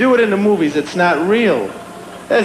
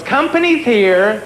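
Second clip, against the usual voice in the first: lightly voiced madam, drawn out and higher; madam calling out; 4 semitones higher, slower than usual. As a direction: call the girls out, slowly. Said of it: "the madam goes to the girls".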